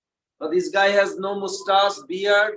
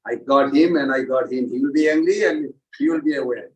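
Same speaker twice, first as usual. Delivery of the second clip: gloating Maya; 5 semitones lower, faster than usual. Retold or imitated. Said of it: "Maya loves it".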